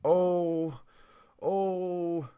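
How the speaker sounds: high and loud dismay. Real, not acted. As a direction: protest in alarm. Dismayed at spoiler risk.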